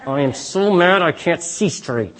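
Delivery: imitating an angry mom; mock fury, as a mother at the end of her patience; put-on voice of a mom who is mad; upset mother. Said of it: "'cause she talked like this".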